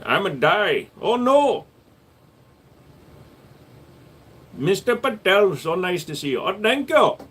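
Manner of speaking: high mock Asian accent; put-on Asian accent. Shown as a demonstration. Answering viewers in a high put-on Asian accent. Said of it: "But how about this?".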